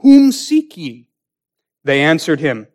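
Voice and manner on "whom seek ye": higher, slow, commanding question; Jesus asking. Acted. Jesus confronting the armed band, slow, raised commanding question. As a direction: ask it slowly from above. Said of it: "went forth and said unto them".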